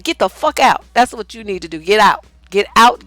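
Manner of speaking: ordinary delivery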